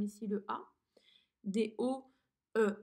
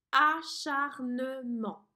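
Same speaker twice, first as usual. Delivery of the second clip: Acharnement split into four slow, louder syllables; very slow dictation; 7 dB louder, much slower than usual. Shown as a demonstration. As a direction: hammer out each syllable of Acharnement. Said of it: "Quatre syllabes". (Acharnement détaché en quatre syllabes)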